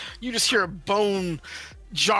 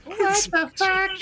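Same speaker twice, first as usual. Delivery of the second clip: surprised; 13 semitones higher, 3 dB louder, slower than usual. Real, not acted. GM shocked at plan.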